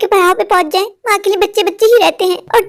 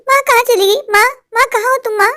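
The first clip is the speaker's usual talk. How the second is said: calling out; 4 semitones higher than usual. Acted. Daughter searching, calling mother.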